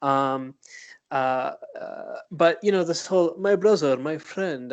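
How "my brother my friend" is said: mock Arab-accented buddy talk; put-on Arab accent, first words louder; stereotypical Arab accent. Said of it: "as if we all stereotypically talk that way".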